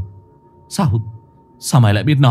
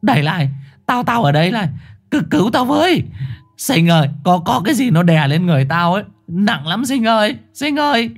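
much higher, frantic begging; van xin cuống quýt; pleading call; 8 semitones higher than usual. A narrator's reading. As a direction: beg a friend to free you. Chồn begging Sinh for help.

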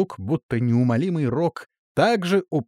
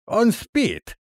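high, lisping and confident; lisping old guard; 10 semitones higher than usual. A narrator's reading. Grey-haired guard lisping that the keeper is asleep. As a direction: lisp it out with certainty. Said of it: "Его голос звучал шепеляво".

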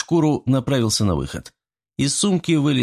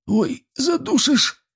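very high, slow strangled cry; wheezing squeal; slower than usual. A narrator's reading. Choked gremlin cries to Artyom, strangled. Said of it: "захрипел сват".

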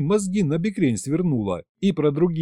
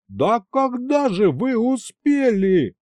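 high, slow, louder outcry; yelling; 10 semitones higher, 3 dB louder, slower than usual. Acted. Fedya shouting at Snezhina over the pregnancy, shocked yell. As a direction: wail it in disbelief. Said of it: "завопил я".

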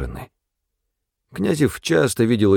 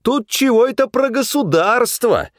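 vengeful gloating; 12 semitones higher than usual. A narrator's reading. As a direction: gloat with spite over «государство». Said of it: "с мстительным, злорадным чувством говорил Князев".

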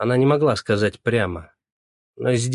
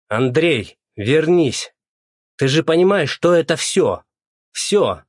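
loud, higher desperate calls; calling after him; 6 semitones higher, 5 dB louder, slower than usual. A narrator's reading. Colleague shouting after Andrey storming off, loud.

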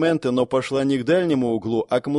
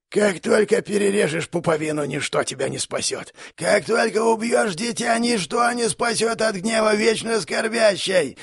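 menacing monster; 7 semitones higher than usual. Acted. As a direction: threaten like an ancient horror. Monster keeper threatening.

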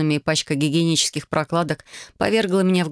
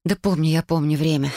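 annoyed. Acted. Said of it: "с досадой ответила я".

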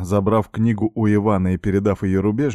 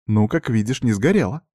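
smirking; 2 semitones higher than usual. Acted. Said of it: "усмехнулась Марьяна".

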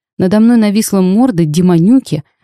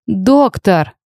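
yelling for help; 3 semitones higher than usual. A narrator's reading. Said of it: "заголосила я".

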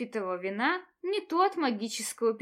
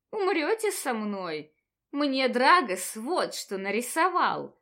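put-on drunk with hiccups. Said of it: "снова икнула я".

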